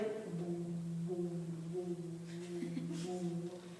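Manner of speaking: long, low, level vocal drone; imitated droning noise. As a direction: hold a low wordless sound for the surreal moment. Imitates how the moment felt.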